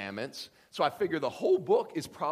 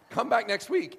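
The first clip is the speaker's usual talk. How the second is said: loud punchy invite; 9 semitones higher, 8 dB louder than usual. Shown as a demonstration.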